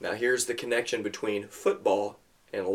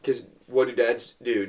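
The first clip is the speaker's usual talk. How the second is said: usual speaking voice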